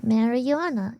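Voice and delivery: "Marijuana" with a y-glide, "mary-yu-ana"; own pronunciation. Shown as a demonstration. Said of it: "I'm saying it just like that".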